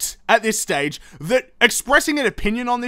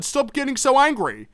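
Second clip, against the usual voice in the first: mock calming; 5 semitones higher than usual. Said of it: "And then you're like".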